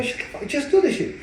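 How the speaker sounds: high, loud yell at his brother; mock yell. Trainer yelling at his lazy brother, loud mock yell. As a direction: bark it like an angry trainer.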